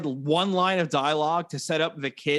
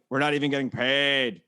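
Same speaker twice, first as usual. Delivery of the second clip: put-on New Zealand accent drifting into Irish, lower; botched New Zealand accent; 6 semitones lower than usual. Demonstrating the actor's slip, Irish-tinged New Zealand accent. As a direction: attempt New Zealand and land nearer Irish. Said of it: "That's more Irish".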